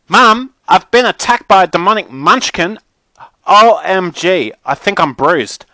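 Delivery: high, loud melodramatic complaint; whining, outraged Mackenzie. A narrator's reading. Mackenzie moans to Mum and Jess about her bruise, outraged. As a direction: wail to Mum like an injured diva.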